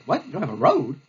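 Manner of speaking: low, grumbling mock commander; hammed-up disbelief, dropping into a grumble; blustering general. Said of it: "And Bulldog".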